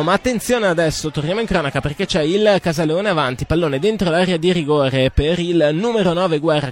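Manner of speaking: rising excitement on an attack; breathless italian goal commentary. Real, not acted. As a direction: lift the pitch as the chance builds. Attack during live commentary. (telecronaca concitata)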